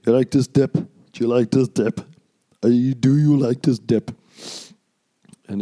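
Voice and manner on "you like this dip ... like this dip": pushy clerk voice, lightly put on; mocking store clerk. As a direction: nag him about the dip in a mock voice. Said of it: "This guy's just".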